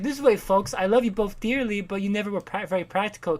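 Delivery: a touch of society-dad caricature; lightly voiced rich dad. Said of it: "he's like".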